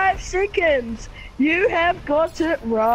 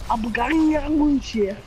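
whispered; faster than usual. Shown as a demonstration. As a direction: whisper Abugania Lagusis breathily. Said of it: "another impression of that".

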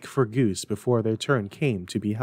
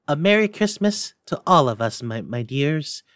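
a lightly voiced father raising a toast, higher and louder at first; father's toast; 4 semitones higher, 3 dB louder than usual. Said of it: "Then Bob proposed".

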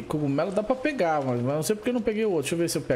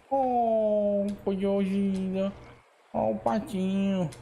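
tender cooing; 3 semitones higher, much slower than usual. Real, not acted. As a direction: coo it slowly. Tender over tiny duckling.

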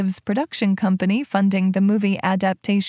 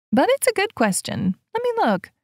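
eager; 11 semitones higher than usual. A narrator's reading. Ella eagerly starts searching.

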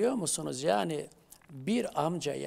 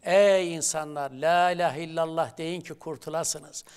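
proclaiming call; 6 dB louder than usual. Acted. Translating the Prophet's call aloud.

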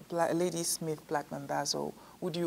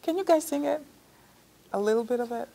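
eager request; 7 semitones higher, 6 dB louder, faster than usual. Real, not acted. Asking the group to sing.

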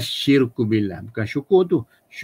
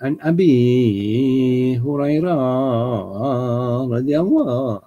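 non-Arab accent; 2 semitones higher, much slower than usual. Shown as a demonstration. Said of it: "itu maknanya tidak lahjah Arab".

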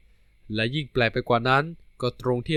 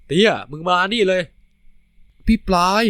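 higher, louder call; loud rough call getting louder; 5 semitones higher, 5 dB louder than usual. Acted. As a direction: shout across the street to him. Characters call out to each other.

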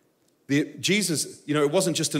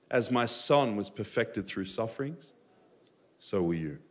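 lightly voiced God; slower than usual. God speaking to his son, slow and gently hushed.

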